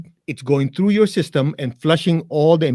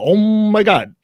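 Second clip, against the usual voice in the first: higher, louder mock cry of oh my God; mock lovemaking moan; 6 semitones higher, 4 dB louder, slower than usual. Joking to the hosts about chanting Om, a mock passionate cry. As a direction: ham up an intense moment, half joking. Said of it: "you go".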